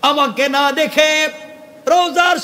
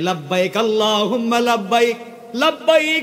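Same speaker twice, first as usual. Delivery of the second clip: ordinary talk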